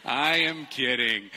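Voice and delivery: high, loud laughing through the words. Real, not acted. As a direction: crack up at own joke. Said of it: "No, I'm kidding".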